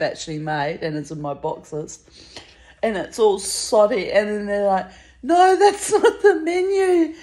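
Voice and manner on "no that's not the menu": high, loud retold objection through laughter; laughing, high-pitched mock correction; laughing mock protest. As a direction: mimic their dismay, laughing as you go. Retold diners' protest, told laughing.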